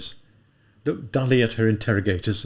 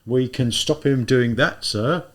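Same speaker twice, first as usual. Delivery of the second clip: thoughtful; 3 semitones higher, 5 dB louder, slower than usual. Acted. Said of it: "replied thoughtfully".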